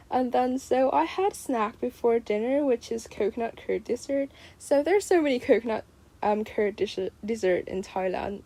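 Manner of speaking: speaking with a retainer in; slightly blurred words through a retainer; wearing a retainer. Real, not acted. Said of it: "I'm still wearing my retainer".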